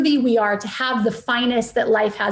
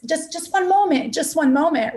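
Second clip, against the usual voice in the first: brushing off; 3 semitones higher than usual. Retold or imitated. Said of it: "You tend to do this".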